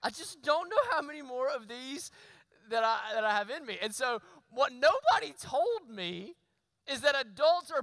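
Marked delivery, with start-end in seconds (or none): 0.0-3.8 weary laugh. Retold or imitated. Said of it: "But I thought".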